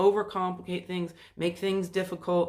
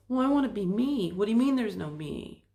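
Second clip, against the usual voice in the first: higher, louder indignant voice; mock protest; 3 semitones higher, 4 dB louder than usual. Some people objecting to the teaching, mock protest. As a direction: push back like a doubter. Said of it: "it's like".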